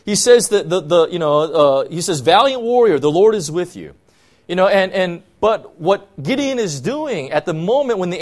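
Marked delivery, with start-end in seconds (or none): 2.2-3.9 raised, ringing call of the angel; loud angelic greeting; bold proclamation. Acted. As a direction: hail him like a herald. Angel hails the hiding Gideon.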